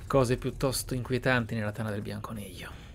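normal talking voice

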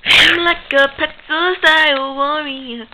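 slow, high, loud drawn-out boast; mock warrior boast. Spider-Man striking a pretzel pose while boasting as a warrior. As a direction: stretch it out like a battle cry.

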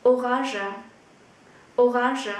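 orange said o-rongzh, French-style. Shown as a demonstration. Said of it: "chúng ta sẽ có cái phát âm là".

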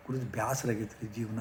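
soft, tired "ಬ್ಯಾಸರಾಗೈತ್ರಿ ಜೀವನ"; a touch of a weary rich man; weary complaint. Retold or imitated. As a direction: sigh out the boredom with life quietly. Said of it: "ಅಂತಂದ್ರು".

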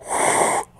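short breathy blow with no voice; blowing out air. Shown as a demonstration. GM voicing a scientist demonstrating lung-blowing, a blown breath. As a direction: show how to blow down a mouth. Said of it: "blow down the mouth".

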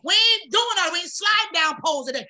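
firm self-command. Acted. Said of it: "tell it".

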